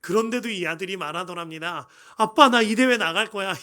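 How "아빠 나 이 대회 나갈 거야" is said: put-on loud, determined child's cry; insistent shout. Son insisting to his father he'll enter, loud shout. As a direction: shout it out like a stubborn kid.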